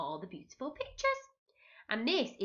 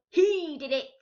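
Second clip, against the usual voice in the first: higher, louder squawk; shouting parrot; 8 semitones higher, 6 dB louder than usual. A narrator's reading. Parrot blames Pete, higher louder squawk. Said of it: "What do you think the parrot shouted".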